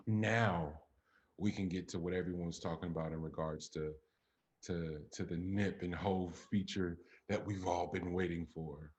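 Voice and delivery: understated sarcasm, dragged out at the end; intentional sarcasm. Real, not acted. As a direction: say it with deliberate, dry irony. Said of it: "if you hear sarcasm in my voice".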